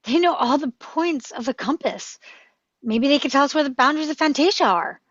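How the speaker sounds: eager insisting. Acted. Atreyu persuading his dragon to wait for the giants, eager.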